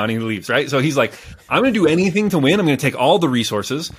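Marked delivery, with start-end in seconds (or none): 1.5-3.9 determined vow. Retold or imitated. Retelling a driven leader's vow.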